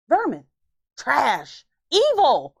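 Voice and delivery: mock horror at the vermin; disgusted outburst. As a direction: spit out each word in disgust. Disgust at the mouse.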